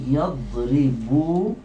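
يضربون said very slowly, syllable by syllable; slow model word; slow demo. Shown as a demonstration. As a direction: stretch out يضربون. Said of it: "أصل يضربون".

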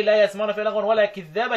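كذابا with a single dhal, kidhaba; lightened consonant. Shown as a demonstration. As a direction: recite كذابا without doubling the dhal. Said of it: "قرأ الكسائي بالتخفيف".

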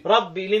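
ربي ending in i, rabbi. Shown as a demonstration. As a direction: kasra on the end of ربي. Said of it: "يبقى هخفض الرفع".

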